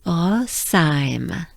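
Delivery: Rosheim with throat r and nasal ending; French Rosheim. Shown as a demonstration. Teacher modeling the whole word. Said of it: "We can do this together".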